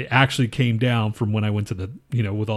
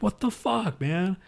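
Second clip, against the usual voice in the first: much higher panicked curse, softer; panicked disbelief; 9 semitones higher, 3 dB quieter, slower than usual. Retold or imitated. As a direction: squeak it out in retold panic. Retold panic at blood pressure.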